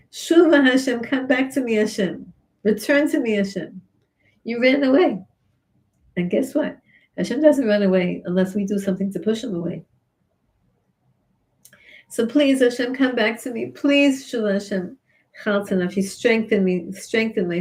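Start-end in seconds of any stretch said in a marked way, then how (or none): 0.1-5.2 pleading King David. Acted. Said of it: "has the nerve to say to Hashem". 12.1-15.0 pleading prayer. Acted.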